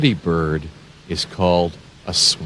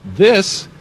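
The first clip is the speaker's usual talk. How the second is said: put-on high, bright-eyed THIS for little kids; ta-da reveal; excited reveal; 11 semitones higher, 4 dB louder than usual. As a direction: gasp it out like a big surprise.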